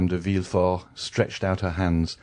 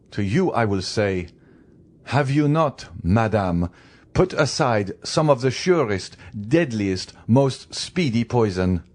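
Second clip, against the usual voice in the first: slightly raised, deliberate pronouncement; stern magistrate; 4 semitones higher, 3 dB louder than usual. Acted. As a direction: pass sentence with weighted, emphatic phrases. Magistrate passes sentence on wife.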